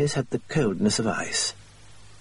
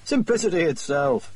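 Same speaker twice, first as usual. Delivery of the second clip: exclaiming; 6 semitones higher than usual. A narrator's reading. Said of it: "cried Holmes".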